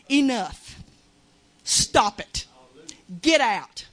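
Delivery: loud commands, rising to shouts; rebuking the enemy voice, loud; loud rebuke. Retold or imitated. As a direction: drive it away with loud commands. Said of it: "I mean loud".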